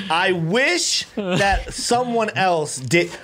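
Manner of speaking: drawn-out fake whine; mock crying. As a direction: plead slowly in mock tears. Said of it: "Why are you crying?".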